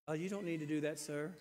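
hint of sheepish seventh graders backing down; lightly imitating scolded kids pleading with the driver; meek kids. Kids answer him meekly, retold.

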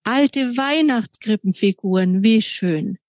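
slow, delighted exclamation; a touch of wonder at old treasures. Acted. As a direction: savour the find with delight. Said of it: "Mama war begeistert".

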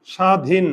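স্বাধীন as "shadhin", silent ব; স্বাধীন ending on n, no vowel after; correct pronunciation demo. Shown as a demonstration. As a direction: say স্বাধীন with "sh" and a closed final n. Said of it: "নয়ের নিচে হসন্ত".

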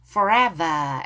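"Forever" with a clear f; F sound. Shown as a demonstration. Teacher warning learners, f marked in "Forever". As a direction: say "Forever" minding the f. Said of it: "F 발음 주의하시고요".

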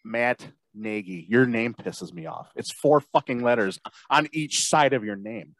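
wrestling promo. Acted. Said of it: "the speaker cuts a promo on Matt Nagy".

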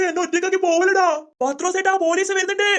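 high, alarmed pleading; panicked calling. Acted. Seller left alone as police approach, high panicked plea. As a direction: call after them in a mild panic.

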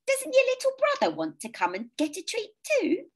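put-on high kindly old lady; sweet elderly neighbour, lilting. A narrator's reading.

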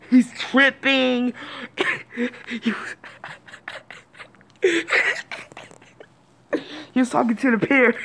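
breathless laughing whisper, fast. Real, not acted. Vlogger telling viewers about drunk cousin, laughing whisper. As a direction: giggle the words out under your breath.

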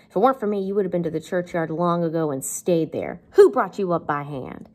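lightly acted sister's tirade; reproachful, with punched openings; Missus Joe scolding. Teacher voices the sister berating Pip, mildly scolding. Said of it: "this is Missus Joe".

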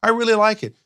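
high-voiced fake enthusiasm. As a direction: imitate someone insisting they like it. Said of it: "your voice pitches up".

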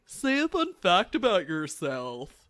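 imitating coworker. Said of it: "they're always like".

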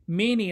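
"Many" given emphasis; stress on many. Shown as a demonstration. Preacher emphasizes the word to his congregation, stressed. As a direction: lean on "Many" to mark it as key. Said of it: "I emphasize the word many".

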